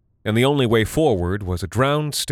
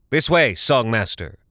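shouting; 3 semitones higher, 3 dB louder than usual. Acted. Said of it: "Talarn shouted".

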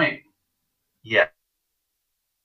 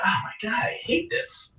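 higher, softer kid's whine, lightly hammed; mock whiny lazy kid; 12 semitones higher, 7 dB quieter than usual. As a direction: whine it like a bored kid hauling balls. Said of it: "So I'm like".

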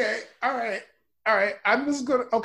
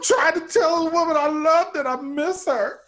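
upset shouting back; 4 semitones higher than usual. Acted. Shouting back at angry relative.

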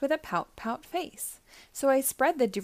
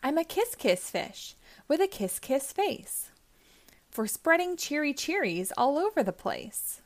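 higher, brighter happy sing-song; cheery refrain; 4 semitones higher than usual. Acted. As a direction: lift it up, the fish is happy now. Fish turns happy, kiss refrain.

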